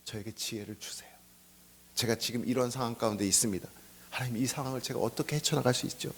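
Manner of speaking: very soft, low murmured prayer; hushed private plea to God; humble prayer. Acted. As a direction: pray quietly, almost under the breath. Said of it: "뭐라고?".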